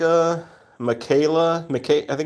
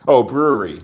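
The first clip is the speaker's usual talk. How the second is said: bright, louder "brewery" as it dawns on him; sudden realisation; 5 dB louder than usual. Real, not acted. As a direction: say "brewery" with an aha lift. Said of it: "Never mind".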